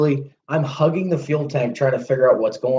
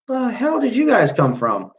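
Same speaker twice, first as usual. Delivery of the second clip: astonished; 10 semitones higher than usual. Retold or imitated. Astonished at the big cops.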